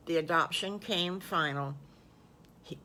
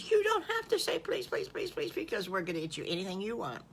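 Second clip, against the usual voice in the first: gentle mother; faster than usual. Acted. Mother answers softly.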